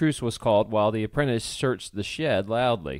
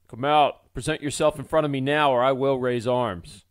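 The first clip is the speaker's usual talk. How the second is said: louder, fast angry command; angry demand; 3 semitones higher, 5 dB louder than usual. Acted. Angry blacksmith orders the intruders out, loud and fast. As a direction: bark the order to come out now. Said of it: "the angry blacksmith demanded".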